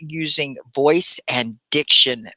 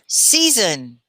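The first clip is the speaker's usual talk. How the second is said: faster; 2 semitones higher than usual. Shown as a demonstration.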